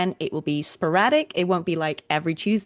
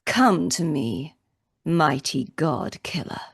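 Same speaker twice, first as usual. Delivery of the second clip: dark lord; 2 semitones lower, slower than usual. Acted. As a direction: call them in with slow menace. Live line read, summoning.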